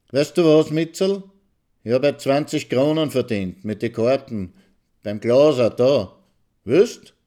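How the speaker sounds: a husband in stammering, stretched Viennese; halting, drawn Viennese dialect, hardly understandable. A narrator's reading. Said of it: "in seinem stotternden, gedehnten Wiener Dialekt".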